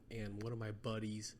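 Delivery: talking through hiccups. Real, not acted. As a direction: speak while hiccuping. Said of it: "excuse me, I got the hiccups".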